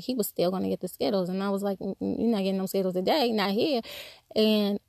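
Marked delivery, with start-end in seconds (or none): 1.8-3.8 hyper refusal. Retold or imitated. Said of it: "I kind of was like the hyper one".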